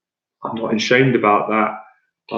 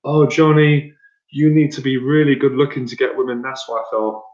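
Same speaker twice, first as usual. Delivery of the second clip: mock crybaby. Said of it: "men acting like crybabies".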